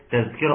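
"تذكرة" said with a z in place of ذ; dhal turned zay. Shown as a demonstration. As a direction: swap the ذ of "تذكرة" for a buzzing ز. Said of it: "مش بتتبدل لحرف تاني". (نطق "تذكرة" بالزاي بدل الذال)

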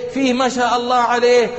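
imitating a wife eagerly defending her husband; half-playful wife's protest; defensive wife. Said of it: "قالت".

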